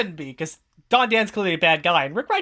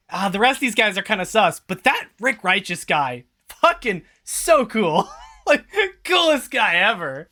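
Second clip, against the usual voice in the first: mocking starstruck fan; 4 semitones higher than usual. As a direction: gush like a smitten fan, slowing at the end. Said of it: "you guys are all like".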